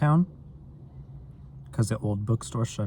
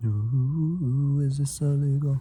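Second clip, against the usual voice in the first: put-on higher-pitched playful Australian accent; 5 semitones higher, much slower than usual. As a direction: tease it in a mock Australian accent. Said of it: "It's illegal of me to do an Australian accent".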